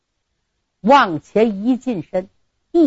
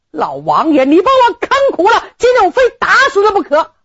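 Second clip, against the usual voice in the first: enraged retort; 10 semitones higher than usual. Acted. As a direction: throw the rage back at the old man, pitched high. Groom answers in rage.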